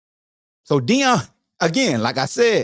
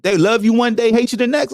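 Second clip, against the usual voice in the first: ordinary talk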